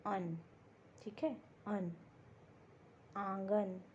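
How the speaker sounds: अन and आंगन sounded through nose and mouth; nasal demo. Shown as a demonstration. Teacher showing students a nasal vowel. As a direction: voice अन, आंगन with a clear nasal ring. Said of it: "इनका उच्चारण नाक और मुंह से होता है".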